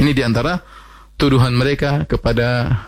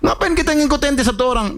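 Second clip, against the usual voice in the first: mocking; 12 semitones higher than usual. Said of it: "Maksudnya mereka ngejek".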